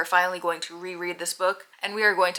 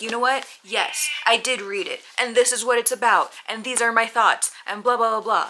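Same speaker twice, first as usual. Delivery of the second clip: confident answer; 4 semitones higher, 4 dB louder than usual. Pretend. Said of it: "I'm gonna be like".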